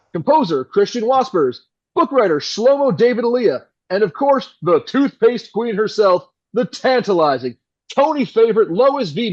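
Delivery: slick, polished on-air patter; suave radio announcer. Acted. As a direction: keep the radio host charm rolling. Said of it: "suave radio announcer voice".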